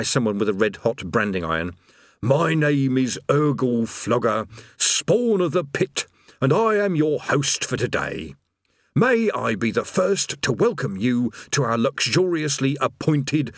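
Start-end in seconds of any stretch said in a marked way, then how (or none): 2.2-13.5 slow rote greeting, pitched up on spawn of the pit; reciting a forced script. Acted. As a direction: recite it like a hated customer-service script. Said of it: "script patiently explained to him".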